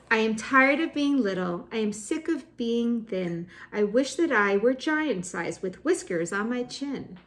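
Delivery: put-on animated recital in a child's words; emphatic poem reading. Teacher reads a fed-up child's poem, animated emphatic recital. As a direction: declaim the little one's complaint in rhythm.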